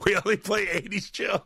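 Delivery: high, put-on prim bandleader voice; prissy band frontman correcting a guest; stuffy cover band singer. Quoting the Step Brothers band, a high snooty voice. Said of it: "like that band in Step Brothers".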